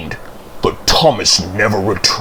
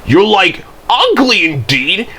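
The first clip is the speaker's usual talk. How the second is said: raised pitch, firmly stated; 8 semitones higher than usual. A narrator's reading. Thomas trades insults with Percy, firm and higher. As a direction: assert it with mild indignation. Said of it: "continued Thomas firmly".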